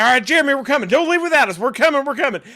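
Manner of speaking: high, loud, eager chatter; imitating excited friends. Friends begging not to be left behind, mock excited. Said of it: "they started getting excited".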